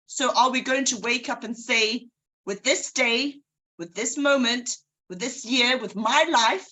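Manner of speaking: rousing motivational speech, each phrase built up; speech delivery. Shown as a demonstration. Practicing her speech on the listeners, rousing and earnest. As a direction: pump the listeners up with conviction. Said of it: "give you a piece of my, of this speech".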